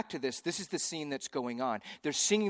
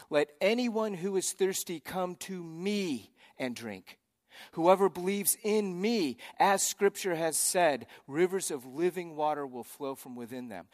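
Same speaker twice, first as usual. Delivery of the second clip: slow, raised call to the crowd; loud proclamation; 4 semitones higher than usual. Retold or imitated. Jesus calling out to the festival crowd, slow and raised. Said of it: "Jesus stood and said in a loud voice".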